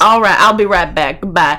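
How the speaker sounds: lightly faked Southern accent; amateur Texan accent; bad Texas accent. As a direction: play a Texan taking his leave. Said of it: "I have a terrible accent".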